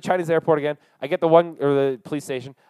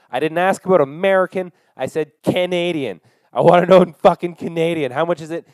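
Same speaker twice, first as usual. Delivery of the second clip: loud, higher, snapping at her; angry insistence; 3 semitones higher, 5 dB louder than usual. Retold or imitated. Angry traveller snapping at the airport clerk over currency. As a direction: demand the price, leaning on fucking.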